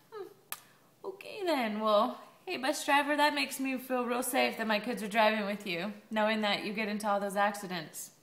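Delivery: dry mock praise, pitch up on the start; sarcastic. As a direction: fake approval dripping with sarcasm. Sarcastic quote to bus driver.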